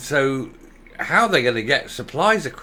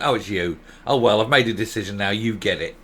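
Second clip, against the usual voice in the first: lower, dismissive mock of the first minister; offhand first minister; 6 semitones lower than usual. Mocking the first minister picking the new transport secretary, lower and offhand. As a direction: toss it off, settling for whoever is there.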